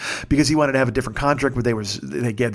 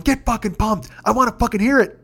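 raised-pitch, fired-up demand; retold yelling; 7 semitones higher than usual. Fan urging his laughing friend on, yelling. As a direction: goad a friend into getting pumped. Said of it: "'cause I'm yelling. I'm going".

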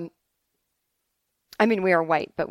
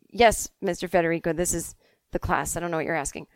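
understated puzzled teacher, falling statements; matter-of-fact teacher reply; 2 semitones lower, faster than usual. Acted. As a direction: answer evenly, dropping at the ends. Teacher answers Mark, acted in retelling.

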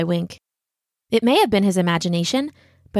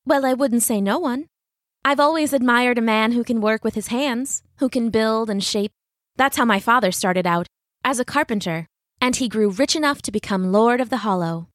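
lilting, slightly raised female character voice; admiring young lady; 3 semitones higher than usual. Acted. Katrina encourages the stonecutter, lilting admiring young lady. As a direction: reassure him with gentle admiration.

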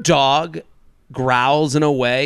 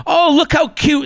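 mock cooing; 12 semitones higher, 3 dB louder than usual. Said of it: "go up to the dog and go".

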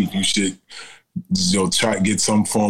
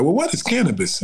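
grandma voice; 9 semitones higher than usual. Retold or imitated.

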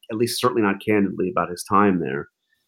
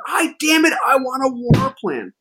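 angry Trump imitation. Trump demanding his war plan, high whiny mock rage. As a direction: throw a tantrum like a furious boss. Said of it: "Trump's getting angrier and angrier".

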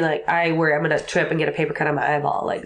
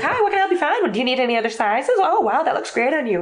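much higher, bright upspeak; perky salesclerk; 8 semitones higher than usual. Retold or imitated. An American shop clerk greets a customer, high perky chirp. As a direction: chirp it like an eager shop assistant. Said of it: "here it's like".

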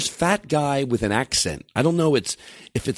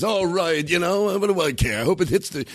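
higher-pitched exasperated outburst, mildly retold; going nuts; 7 semitones higher than usual. Comic retells a rival finally admitting resentment, going nuts. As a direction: give up pretending and let it spill out, voice raised in pitch. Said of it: "he just went nuts".

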